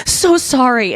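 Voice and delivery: exaggerated, sing-out apology; mock apology. Dog owner apologizing for a sniffed shoe, mock-apologetic. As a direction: put on an over-polite little sorry. Acting out automatic elevator apology.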